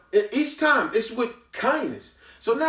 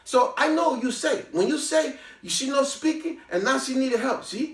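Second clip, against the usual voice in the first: put-on higher, lightly accented security guard; Latino accent; 7 semitones higher than usual. Security guard Manny complaining about the rude girl in a higher, accented voice. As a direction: do the guard's broken-English gripe, pitched up.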